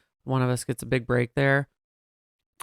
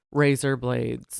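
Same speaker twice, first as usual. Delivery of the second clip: Australian accent; much slower than usual. Shown as a demonstration. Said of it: "say it like this, it sounds like Australian".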